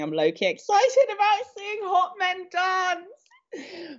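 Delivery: high, slow, giddy squeal.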